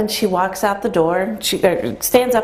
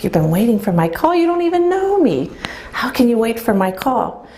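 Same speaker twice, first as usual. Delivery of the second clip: incredulous; 4 semitones higher than usual. Retold or imitated. Woman on the phone questioning the stranger, incredulous and higher. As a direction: ask it in amazed disbelief. Retold disbelief at stranger's claim.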